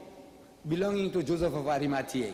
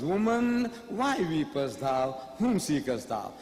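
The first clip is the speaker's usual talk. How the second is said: Jesus quoted; slower than usual. Acted. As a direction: read it like scripture, grave and slow. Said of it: "So he says".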